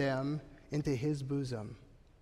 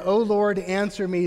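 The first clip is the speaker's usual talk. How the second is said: earnest call; 4 semitones higher, 7 dB louder than usual. Retold or imitated. Elijah's prayer retold.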